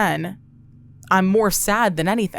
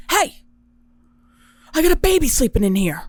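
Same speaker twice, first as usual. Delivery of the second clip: neighbor yelling; 7 semitones higher, 3 dB louder than usual. Retold or imitated. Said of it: "and he goes".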